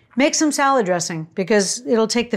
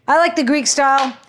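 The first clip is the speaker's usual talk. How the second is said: laughing; 5 semitones higher, 3 dB louder than usual. Real, not acted. Laughs while choosing feta.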